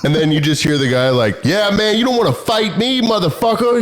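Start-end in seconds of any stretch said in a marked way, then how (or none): 1.4-3.8 high-pitched imitation of a man spoiling for a fight; mock tough talk, pitched up; retold blustering threat.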